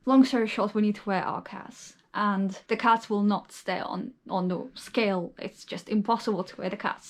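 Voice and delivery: lisping. Real, not acted. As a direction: lisp from a numb, swollen mouth. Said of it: "I'm really lispy right now".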